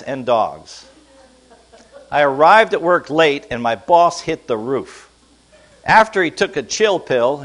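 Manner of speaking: a measured reading, every phrase distinct; slow reading. Shown as a demonstration. Pastor reading an idiom story to the congregation, slow and even. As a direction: read it aloud slowly and steadily. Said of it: "read this very slowly".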